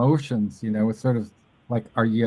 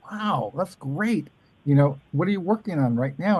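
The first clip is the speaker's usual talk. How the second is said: imitating Ellen; 5 semitones higher than usual.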